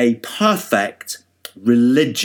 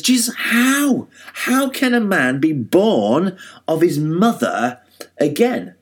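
puzzled Nicodemus; 4 semitones higher than usual. Acted.

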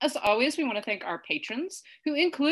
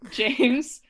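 laughing; 4 semitones higher, 5 dB louder than usual. Real, not acted. Laughs reading patron name list.

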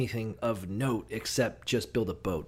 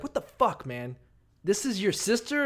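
higher hammed-up disbelieving question; mock pharaoh disbelief; 7 semitones higher than usual. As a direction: pitch up in exaggerated disbelief. Pharaoh voiced confronting Abraham.

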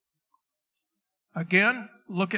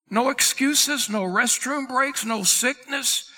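higher, slow, punching each "no"; emphatic list; 5 semitones higher than usual. Acted. Pastor telling believers there are no exceptions, slow and emphatic. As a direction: hammer home every "no".

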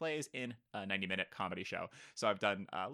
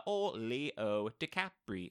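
slow, drawn-out mock announcer; drawled nickname; much slower than usual. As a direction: draw out the name, hammy. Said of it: "You really double down on that".

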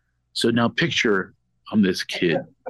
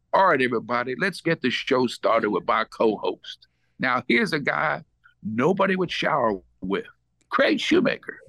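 Magic Johnson impression; 5 semitones higher than usual. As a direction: hype up the crowd like Magic Johnson. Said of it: "the intro that Sling Blade wrote".

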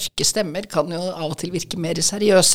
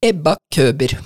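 louder, said with the neck craned out like a turtle; neck stretched forward; 3 semitones lower, 6 dB louder than usual. Shown as a demonstration. Voice coach exercise, neck stretched out forward, louder. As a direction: strain the chin far forward and say your name. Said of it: "at du drar i nakken som en skilpadde".

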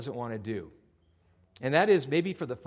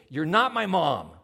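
snide retort; 2 semitones higher, 5 dB louder, slower than usual. Retold or imitated. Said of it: "you know, real nice".

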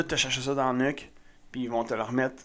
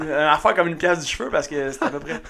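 laughing. Real, not acted. Giggling while explaining.

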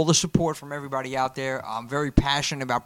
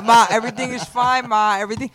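exasperated son; 5 semitones higher, 4 dB louder than usual. Retold or imitated. Son answering fussing mother.

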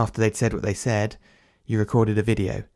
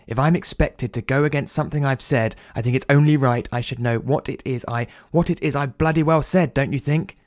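rising anger, pitched up on bloody well said; irritated outburst; 4 semitones higher than usual. Acted. Peter demanding to know what he said, building irritated outburst. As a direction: snap back at them, building to exasperation.

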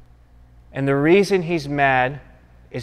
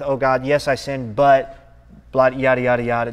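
mock excuses. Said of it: "not with excuses".

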